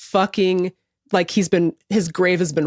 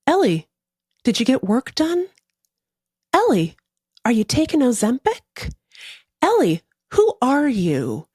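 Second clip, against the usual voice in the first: higher-pitched, pointed mock interrogation; accusatory questioning; 4 semitones higher than usual. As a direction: imitate suspicious commenters grilling their idol. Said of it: "Like, really questioning Ellie".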